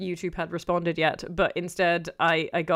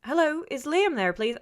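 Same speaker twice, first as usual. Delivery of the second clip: higher, sing-song phone enquiry; imitated woman caller; 9 semitones higher than usual. Same woman ringing back for Liam, imitated caller. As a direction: mimic a caller asking again, pitch lifted. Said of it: "same woman".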